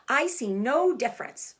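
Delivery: put-on girl still clinging to the axe, defiant. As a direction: refuse to give in. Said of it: "replied Fern".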